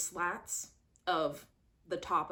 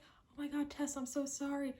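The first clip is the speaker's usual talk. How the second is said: mock apology; 7 semitones higher than usual. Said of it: "he's like".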